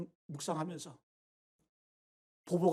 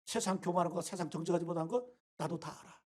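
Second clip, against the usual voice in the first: softer, lower saying "다 알아"; quiet God voice; 4 semitones lower, 6 dB quieter than usual. Retold or imitated. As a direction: murmur "나도 다 알아" low and soft. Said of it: "하나님이 바로 그걸 지적하고 있는 거예요".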